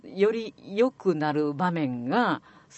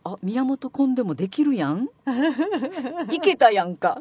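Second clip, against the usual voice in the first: pleased surprise; 6 semitones higher, 5 dB louder than usual. Retold or imitated. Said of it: "そうすると".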